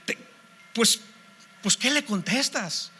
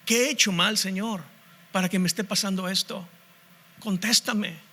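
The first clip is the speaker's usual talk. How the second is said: softer, lower hurt questions; plaintive questioning; 4 semitones lower, 4 dB quieter than usual. Acted. A believer in crisis demanding answers from God, softly plaintive. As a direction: ask God like a wounded child.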